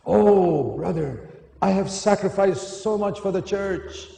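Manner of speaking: hammed-up martyr moaning about thanks; mock complaining. Mocking complaining church servant.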